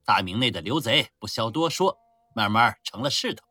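loud swaggering army commander; boastful rough general. Acted. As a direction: brag loudly over wine. Drunken general boasting at a feast. (粗豪自大的将军大声吹嘘)

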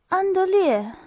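a high, coy whisper of her husband's name; coquettish whisper. A narrator's reading. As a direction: breathe his name playfully, high and hushed. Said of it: "都用同样娇媚的腔调".

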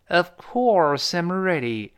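"Of" light and quick, "course" high and drawn out; stress on course. Shown as a demonstration. Teacher models the answer, slow with stressed "course". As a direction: hit "course" high and stretch it, skim over "Of". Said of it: "而过，course重读".

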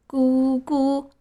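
a teasing "coo-coo" in a put-on voice; mocking cuckoo call. Puppet taunts the bullies with a mocking cuckoo call. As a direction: jeer with a cuckoo sound. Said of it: "木偶叫着".

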